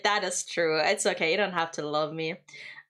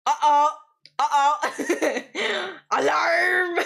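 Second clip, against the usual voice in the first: much higher and louder mock panic; cat's alarm voice; 8 semitones higher, 5 dB louder, much slower than usual. Streamer voicing her cat missing her, high alarmed uh-oh. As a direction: sound the alarm as the fretful cat. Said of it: "he's like".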